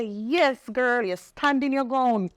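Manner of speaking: high, proud cheer to herself; self-cheer. Retold or imitated. To herself after hanging up, high proud cheer. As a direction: hype yourself up like a proud friend.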